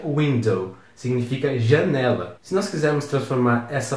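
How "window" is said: WINDOW said as an English word; English pronunciation. Shown as a demonstration. Teacher shows students how it is pronounced, English pronunciation of WINDOW. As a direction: demonstrate English WINDOW, stressed on the first syllable. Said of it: "e se pronuncia".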